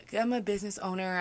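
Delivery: "business owner" said hesitantly, as if unsure; awkward downplaying. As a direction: mumble "I'm a business owner" like an apology. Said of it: "I felt really odd saying that".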